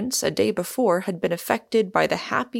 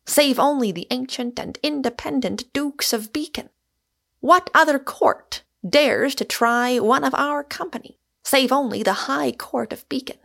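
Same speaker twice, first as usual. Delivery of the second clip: high, grand oratory; lofty, ringing challenge in a lifted voice; raised voice; 6 semitones higher than usual. A narrator's reading. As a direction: declaim like a mock-heroic orator, pitch well up. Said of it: "raising his voice".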